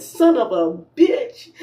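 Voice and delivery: laughing curse. Retold or imitated. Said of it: "I said".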